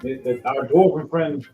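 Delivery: commanding ship captain shouting orders, only lightly voiced; barking captain. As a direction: rouse the whole crew to work. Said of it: "Captain goes".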